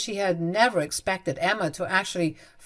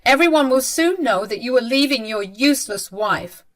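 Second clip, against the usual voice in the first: scornful dismissal; 4 semitones higher, 5 dB louder than usual. Acted. Mother scoffs at son.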